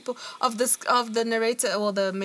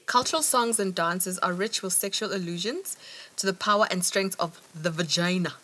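lower, measured reading voice; reading aloud; 5 semitones lower than usual. A narrator's reading. Podcaster reading an academic passage to co-host, measured read-aloud.

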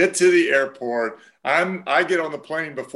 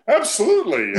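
eager yes; 8 semitones higher, 4 dB louder than usual. Retold or imitated. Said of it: "David was like".

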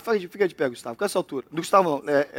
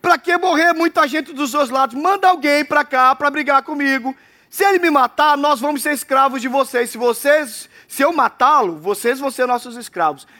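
Goliath taunting; 3 semitones higher than usual. Acted. Goliath challenging Israel to single combat, boastful raised voice. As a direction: call out the duel like a mocking giant. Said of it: "E ele fala assim".

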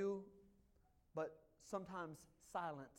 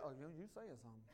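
laughing retort; 6 semitones lower, 6 dB quieter, much faster than usual. Retold or imitated. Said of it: "And I'm like".

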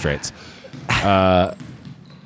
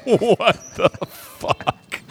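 baffled; 11 semitones higher, much slower than usual. Real, not acted. Baffled at partner's joke.

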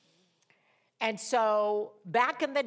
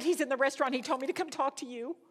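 rushed talk; 6 semitones higher, faster than usual. Retold or imitated. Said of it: "I was talking on steroids".

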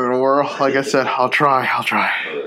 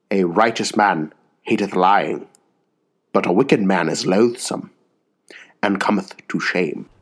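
attempted English accent, a little lower; 4 semitones lower than usual. Co-host reads King James proverb on request, English accent. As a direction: have a go at an English accent, measured pauses. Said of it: "when you do the English accent".

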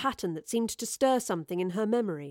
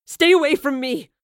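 raised, louder growled warning; angry growl; 5 semitones higher, 8 dB louder than usual. A narrator's reading. Son warning off his own father, angry growl. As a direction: growl it as a threat. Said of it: "Bosie growled at the older man".

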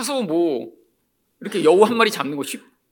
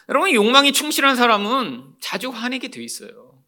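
ordinary talk

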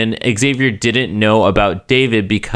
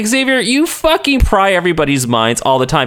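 higher-pitched incredulous scolding; mock exasperation; 4 semitones higher than usual. Fan scolding Xavier for not mind reading, mock exasperation. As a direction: berate him in playful disbelief. Berating Xavier in imagined address.

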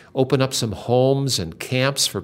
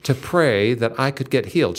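frustrated cry. Retold or imitated. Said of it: "She cried out. She said".

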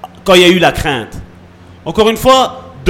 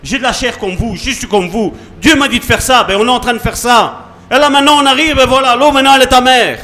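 lightly acted protest, building higher; Moses answering back; 4 semitones higher than usual. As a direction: plead your case as a put-upon leader. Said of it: "Moi, j'aurais été Moïse".

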